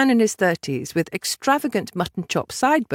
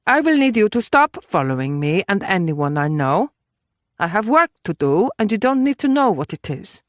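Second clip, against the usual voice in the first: lightly voiced woman laying down terms; a touch of stern insistence; Judith, firm; 2 semitones higher than usual. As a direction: state your demands firmly.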